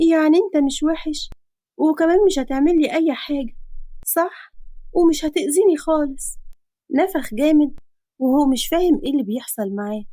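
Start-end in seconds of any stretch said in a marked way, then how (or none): 0.1-6.4 put-on higher girl's voice, innocent. Girl asking man innocently for reassurance. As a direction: ask him naively. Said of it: "وقالت ببراءة".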